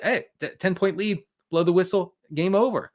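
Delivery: mock referee. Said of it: "The refs call it".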